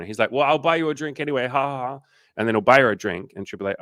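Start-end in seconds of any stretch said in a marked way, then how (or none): 0.3-2.0 high, quick imitation with mock laugh; pushy suitor. Imitating a man insisting on buying her a drink, pushy. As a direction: barrel past the refusal, falsely jolly.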